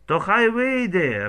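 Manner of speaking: high, loud and slow; angry demand. A narrator's reading. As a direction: demand it furiously. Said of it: "Раїса до мамки".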